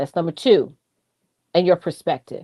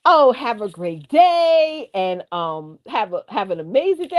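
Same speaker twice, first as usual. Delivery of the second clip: slow, drawn-out smooth greeting, lightly imitated; handsome-man voice. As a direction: lightly play the charming AI man. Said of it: "in this, like, handsome-y voice".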